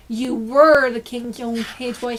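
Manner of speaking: slow, loud cutting reply with stress on were; snapped. Acted. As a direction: bite off the words coldly. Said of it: "snapped Lord Droon".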